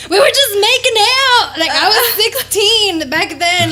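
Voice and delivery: put-on high, loud laughing teenage protest; half-laughing plea of innocence. Retelling protest to the cop, high and laughing. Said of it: "And I was like".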